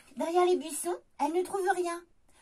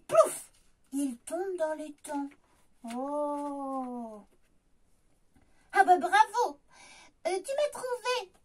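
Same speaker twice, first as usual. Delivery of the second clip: frog voice. Acted. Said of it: "dit Grenouille".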